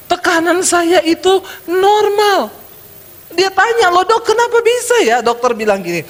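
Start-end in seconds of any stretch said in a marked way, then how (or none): 0.1-2.6 high, slow, drawn-out delivery; amazed announcement. Acted. Patient proudly reports to doctor. 3.9-5.2 high-pitched puzzled question; astonished patient. Acted. Patient astonished by his result.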